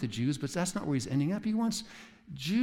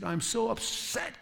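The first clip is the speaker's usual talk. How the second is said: whiny Jonah; 10 semitones higher, slower than usual. Retold or imitated. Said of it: "he said".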